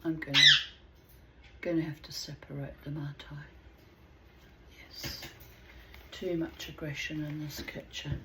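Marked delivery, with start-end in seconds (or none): 1.6-5.2 softer, quick half-whisper to herself. Real, not acted. Owner quietly deciding to split the birds up, whispering. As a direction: talk it through under your breath.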